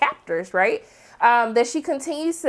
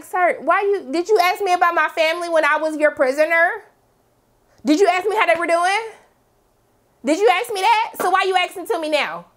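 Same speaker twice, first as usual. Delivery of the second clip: raised-pitch indignant questioning; emotional, upset; 4 semitones higher than usual. Acted. Acting out a former prisoner challenging her captor, upset. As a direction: press each question, offended. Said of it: "I'm getting really emotional and upset".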